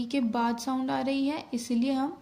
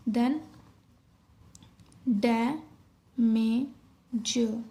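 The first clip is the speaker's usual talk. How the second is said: डैमेज stretched out very slowly, syllable by syllable; slow dictation; much slower than usual. Shown as a demonstration. Teacher dictating डैमेज to shorthand students, very slowly. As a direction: draw out डैमेज so students can write it. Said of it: "teacher dictating next word".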